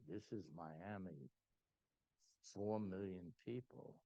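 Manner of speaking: slow, grand presenter voice; dramatic showman. Retold or imitated. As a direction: unveil each city like a showman, slowly. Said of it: "I'm making it as dramatic as I can".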